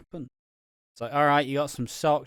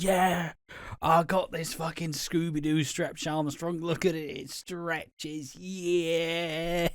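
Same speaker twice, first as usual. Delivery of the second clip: put-on raised, slow, gleeful kid voice; mock childlike joy; 5 semitones higher, much slower than usual. Streamer imitating a child's present joy, raised and excited. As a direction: act out a thrilled kid showing off a toy. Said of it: "screaming your fucking heart".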